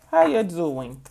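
lightly mimicked catchphrase greeting; a touch of a celebrity catchphrase; Miss Wendy. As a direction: do a light impression of a signature hello. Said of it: "like Miss Wendy says".

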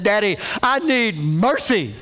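imitating a crying child begging; hammed-up plea for mercy; mock tearful plea. Crying son begs Daddy for mercy, mock tearful. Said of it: "Jeremy was just crying".

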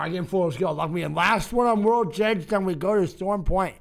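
talking around a mint; words round a mint in the mouth; mouth full. Real, not acted. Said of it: "I had a fucking mint in my mouth".

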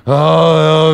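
long drawn-out groan; mock zombie groan. Teller mimicking men mobbing her with the jacket, zombie groan. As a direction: groan like a grasping horde. Imitating the grabbing Walking Dead crowd.

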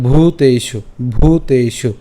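"ভূতেষু" with a forceful aspirated bh; pressed bhu. Shown as a demonstration. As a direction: lean on the ভূ in "ভূতেষু". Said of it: "একটু জোরে উচ্চারণ করতে হবে".

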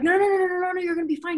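high, rapid string of no's; urgent reassurance. Retold or imitated. Best friend calming the crying caller, urgent reassurance. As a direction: imitate a friend rushing in to soothe.

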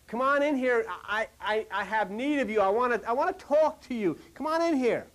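half-shouted call from the shore. Acted. Jesus on the shore yells to the men in the boat, mildly calling out. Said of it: "he yells out to these guys in the boat".

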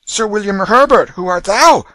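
loud, high haughty demand. A narrator's reading. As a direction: demand it like a prince. Prince demands answer.

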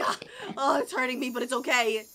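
low, soft voice putting up with pain; quietly resigned through the hurt; tearful but brave. Acted. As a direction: play a meek, wounded Steve. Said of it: "I like the little tears in his eye".

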